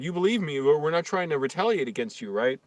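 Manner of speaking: mock pleading manager. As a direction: lightly mimic her asking for agreement. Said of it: "she's like".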